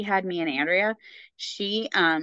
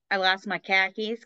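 imitated Boston accent; Boston accent attempt. Shown as a demonstration. Showing what she can say, Boston accent. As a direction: try a light Boston accent. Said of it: "how to do it with the accent".

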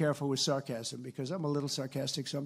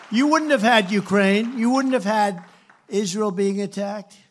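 higher, louder, hitting "wouldn't"; loud rally list; 4 semitones higher, 8 dB louder than usual. Real, not acted. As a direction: drive each "wouldn't" at the crowd.

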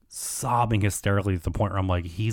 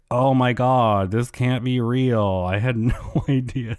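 mock shock; 3 semitones higher, 4 dB louder than usual. Schwartz claiming to Sandoval he had no idea, mock shock. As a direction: feign being stunned, dragging the words out.

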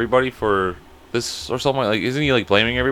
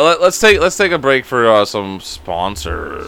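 announcer voice; slower than usual. Pretend. Mock ad break announcement.

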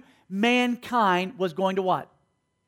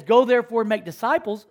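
true verse, proclaimed. Shown as a demonstration. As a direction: proclaim "Go therefore and make disciples" as the real scripture. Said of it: "It says".

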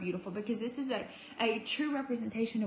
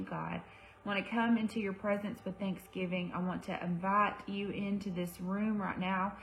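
prayer. Acted. Opening prayer on a live.

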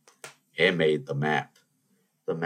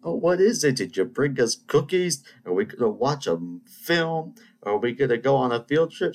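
mock-excited, higher questions piling up; hopeful pupil; 8 semitones higher, 4 dB louder than usual. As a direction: imitate an eager kid, pitch jumping up. Hopeful pupil guessing at a treat.

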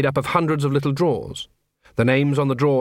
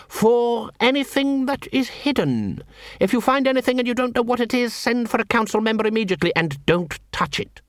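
higher, deliberate then quickening orders; a cold assassin master's instructions; stern commands; 9 semitones higher than usual. Acted. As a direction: warn them not to touch it. Cruce ordering the search.

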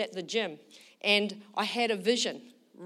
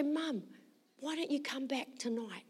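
gentle coaxing; 4 semitones higher, 8 dB quieter than usual. Retold or imitated. Coaxing her tearful mother.

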